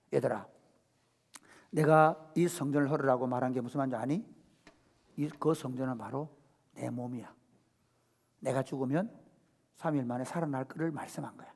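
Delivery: 낮고 부드럽게 타이르는 목소리; 조용히 제자들을 달래듯 설명해; gentle teacher. Acted. 부활 후 제자들에게 다정히 설명. (제자들에게 낮고 부드럽게 설명하는 예수)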